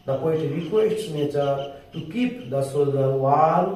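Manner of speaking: the whole sentence in one unbroken, very slow line; slow full read. Shown as a demonstration. Teacher reading the whole line back to students, slow and even. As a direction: read it through in one breath, slowly. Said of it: "আস্তে আস্তে বলছি".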